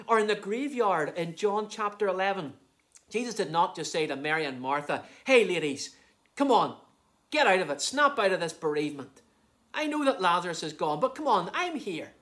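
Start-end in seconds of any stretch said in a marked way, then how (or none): 5.2-12.1 punchy, hurried mock urging; mock impatient chiding. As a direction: imitate a brusque pep talk to mourners. Mock brusque words to mourners.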